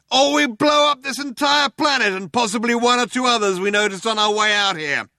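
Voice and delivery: high, loud, sustained shout; shouting cop. A narrator's reading. Cop delivering an ultimatum to the cornered group, shouting. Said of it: "shouted the cop".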